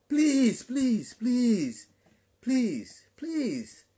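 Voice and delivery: high, falling repeated pleas; plead, each word sliding down from high; earnest pleading. Real, not acted. Preacher begging congregation to pay attention, high pleading.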